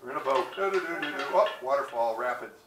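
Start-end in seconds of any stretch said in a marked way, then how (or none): 0.5-1.2 quick sing-song "do-do-do"; singsong filler of idly boating along; carefree paddling ditty. Acted. Hums while paddling along in boat.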